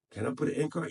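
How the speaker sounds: wondering question, voice rising at the end; half-asking himself, unsure; wondering aloud. Real, not acted. Asks himself, then answers.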